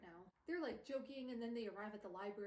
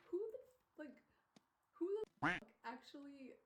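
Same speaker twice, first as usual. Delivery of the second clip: 1 outraged; 5 semitones higher, 4 dB louder than usual. Real, not acted. Outraged on Jem's behalf.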